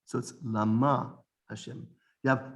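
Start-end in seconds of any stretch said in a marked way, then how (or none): 0.4-1.2 Lama stressed on the final MA; accent on last syllable. Shown as a demonstration. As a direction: say Lama with the weight on its second syllable. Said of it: "Aleph sounding".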